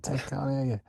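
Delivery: repeated quote. Retold or imitated. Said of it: "I said".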